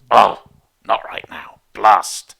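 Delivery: loud, exasperated blurt ending on a breathy blast; irritated outburst. Retold or imitated. Teacher showing the flare-up of irritation, loud exasperated blurt. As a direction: let the annoyance burst out. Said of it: "that moment of".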